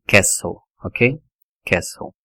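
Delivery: "castle" as KESS-ul, no t; correct English "castle". Shown as a demonstration. Teacher modelling "castle" with the t dropped. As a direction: silent t in "castle". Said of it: "também não tem som".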